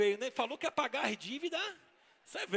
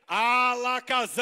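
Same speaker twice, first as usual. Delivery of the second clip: slow, louder incantation; drawn-out magic spell; magic word; 6 dB louder, slower than usual. Shown as a demonstration. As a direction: intone it like a stage magician. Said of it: "Eu falo e vocês repetem".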